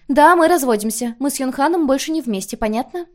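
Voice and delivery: high, loud snap at the daughter; резкий выкрик матери; defiant outburst. A narrator's reading. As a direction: blurt the confession out angrily. Mother snaps the divorce news.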